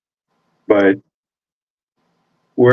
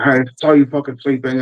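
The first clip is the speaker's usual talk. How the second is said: mildly angry, higher-pitched insistence; mock indignation, pitched up; retold accusation; 5 semitones higher than usual. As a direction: act out a sergeant's pointed accusation. Acts out sergeant insisting on accusation.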